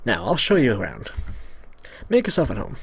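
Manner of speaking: lightly nerdy host; a hint of a stiff nerd. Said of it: "nerdy voice".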